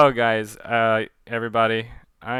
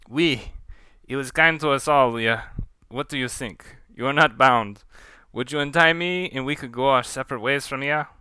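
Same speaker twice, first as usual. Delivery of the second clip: put-on firmer French accent, earnest plea. Pontou asking Leah to untie him, French accent. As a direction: appeal to your captor with a French accent. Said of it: "I'm gonna try that one more time".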